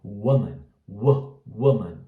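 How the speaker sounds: quick, light first syllable in "woman"; short vowel. Shown as a demonstration. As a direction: say "woman" with a brief, lax oo. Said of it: "ele é mais rápido". ("woman" rápido, com U curto)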